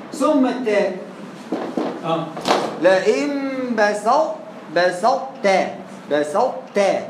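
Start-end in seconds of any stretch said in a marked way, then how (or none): 2.8-7.0 بسطت said slowly, then clipped twice; recitation demo. Shown as a demonstration. Teacher tests the pronunciations aloud, slow demo. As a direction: try out بسطت with ط and ت. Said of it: "مفيش لئن بسطت".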